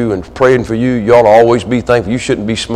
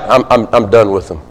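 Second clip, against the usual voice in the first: lower, halting mock resignation; frustrated giving up; 3 semitones lower than usual. Parent giving up on a child, acted resignation. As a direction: stumble on the start, then give up. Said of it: "they get frustrated".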